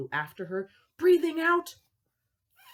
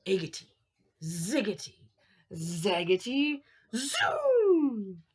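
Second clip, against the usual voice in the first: muttered spell. Acted. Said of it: "she muttered a spell".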